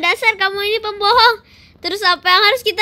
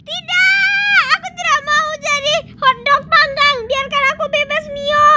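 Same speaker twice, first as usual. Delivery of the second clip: high shouted refusal; shouting no; 5 semitones higher than usual. Pretend. Refusing to be dunked, high shouted no.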